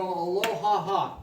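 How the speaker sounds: aloha laugh demo. Shown as a demonstration. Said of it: "and go".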